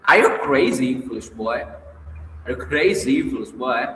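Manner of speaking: put-on light squealing retort at the boy. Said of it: "Luzin squealing".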